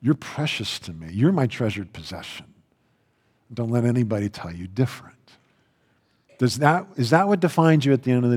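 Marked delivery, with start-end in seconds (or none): 0.0-5.2 softer, lower and tender; gentle shepherd. Acted. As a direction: speak as a loving shepherd to his sheep. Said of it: "your shepherd's voice saying".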